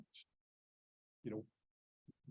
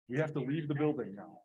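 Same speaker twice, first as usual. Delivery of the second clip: loud urgent call to the room; shouting over fire alarm; 3 semitones higher, 8 dB louder than usual. Real, not acted.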